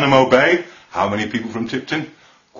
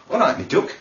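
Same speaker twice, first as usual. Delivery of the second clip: friendly Derby greeting, pitched up; Derby accent; 4 semitones higher than usual. Acted. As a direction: greet someone in Derby dialect. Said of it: "In Derby, men call men duck".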